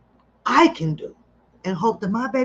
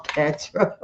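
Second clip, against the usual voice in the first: ordinary talk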